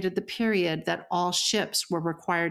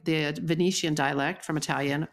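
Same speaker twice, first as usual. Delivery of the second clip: ordinary talk, nothing marked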